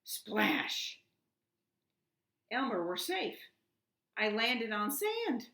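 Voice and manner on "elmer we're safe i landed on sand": higher, louder relieved shout; yelling. A narrator's reading. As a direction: call out the good news. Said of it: "yelled the dragon".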